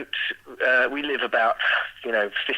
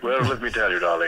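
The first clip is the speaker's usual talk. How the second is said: put-on teenage son hamming up a posh English accent. Son answering schoolgirls who ask him to talk, in a hammed-up posh English accent. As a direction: lay the English accent on thick for the girls. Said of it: "hold on to his English accent".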